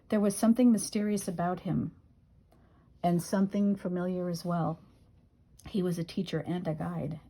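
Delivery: measured poetry reading with rhymes landed; poem recitation. Acted. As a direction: read it as a poem, line by line. Reads own poem aloud.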